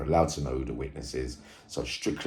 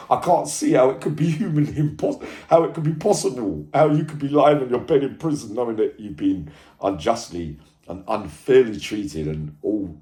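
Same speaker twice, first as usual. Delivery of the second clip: higher and louder, voice rising in protest; real indignant rant, higher and louder; indignant outburst; 9 semitones higher, 8 dB louder than usual. Real, not acted. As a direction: pour out the outrage at the injustice. Indignant outburst about unfair trial.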